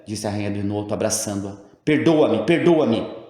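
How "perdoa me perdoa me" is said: higher, louder pleading, broken and falling; sobbing plea. A narrator's reading. Queen embracing old woman begs forgiveness, sobbing plea. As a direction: beg forgiveness through tears. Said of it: "E soluçou".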